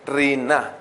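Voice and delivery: Rina with the n held double and the stress on the final a, like rin-NA; corrected pronunciation. Shown as a demonstration. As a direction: Rina corrected, lean on the last a and hold the n. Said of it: "con acento en la A y doble N".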